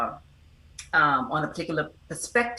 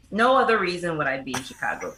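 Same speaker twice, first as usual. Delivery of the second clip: laughing. Real, not acted. Guest jokes back about Chicago.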